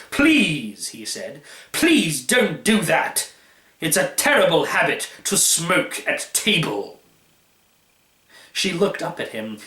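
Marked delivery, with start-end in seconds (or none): 0.1-0.9 a touch of sharp annoyance; mildly angry. Acted. Host scolding the daughter for smoking, mildly angry. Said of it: "suddenly very angry". 1.7-7.0 mild anger. Acted. Host rebuking daughter at table, restrained anger. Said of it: "suddenly very angry".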